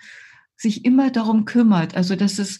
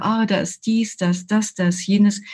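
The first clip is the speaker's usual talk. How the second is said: calm mindful noting. Shown as a demonstration. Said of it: "Und während ich so sage".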